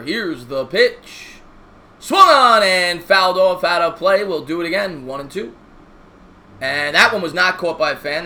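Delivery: slow baseball broadcaster call; play-by-play announcer. Acted. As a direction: call each pitch like on TV.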